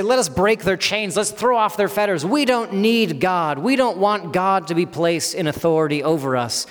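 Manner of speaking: understated acted defiance; raging nations. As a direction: proclaim rebellion with a touch of anger. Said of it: "we hear the nations raging and roaring and yelling".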